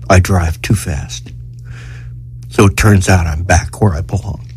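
halting, subdued reading with long pauses; emotional reading. Real, not acted. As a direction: hold back real emotion as you read. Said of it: "I was so emotional reading".

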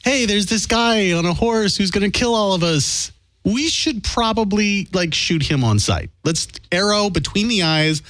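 high, slow silly warrior voice; high mock Mayan voice. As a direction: play a panicked Mayan lookout. Voicing a Mayan in a story.

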